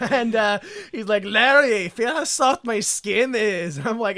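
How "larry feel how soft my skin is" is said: put-on drunk-sounding. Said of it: "Is he fucking drunk?".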